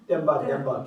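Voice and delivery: demba then demba, each d said differently; two demba sounds. Shown as a demonstration. Teacher repeats the pair for the class. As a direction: contrast the two Tibetan d sounds. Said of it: "Can you hear the difference".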